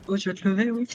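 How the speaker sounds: French line in a lightly voiced bossy fairy; a hint of a rude fairy, in French. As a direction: toss it off like a sassy fairy. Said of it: "And in French, she said".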